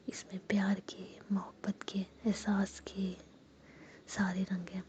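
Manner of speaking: intimate whisper, telling a romance at night; whispered storytelling. A narrator's reading. Narrator whispers a love story to listeners, hushed. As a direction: murmur the story close to the mic.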